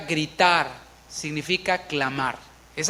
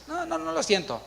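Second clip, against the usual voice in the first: timid mock cry; 10 semitones higher, 6 dB quieter than usual. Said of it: "no es como que dices".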